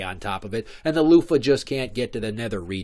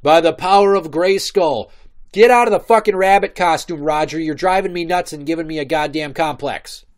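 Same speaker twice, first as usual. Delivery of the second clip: booming hero voice, louder; heroic He-Man proclamation; 6 semitones higher, 9 dB louder than usual. Pretend. Prince Adam ordering dad out of the costume, booming heroic call. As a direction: proclaim it like a cartoon hero raising his sword. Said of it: "and say".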